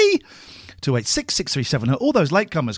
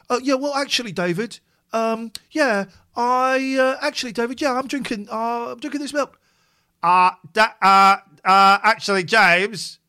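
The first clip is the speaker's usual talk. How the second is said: imitating the game show guys; 5 semitones higher than usual. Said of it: "That's how they talk".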